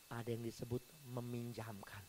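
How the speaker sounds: hushed aside to the congregation; whisper. Acted. Pastor confiding to the congregation, whispered. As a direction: whisper it, drawing them in. Sermon contrasting giving and lending.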